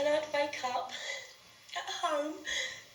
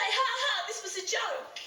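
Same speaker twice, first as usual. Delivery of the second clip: higher, mock-laughing reveal; imagined joking laugh; 5 semitones higher than usual. Imagining the friend phoning to say it was all pretend, joking. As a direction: laugh it off as a prank, pitched up.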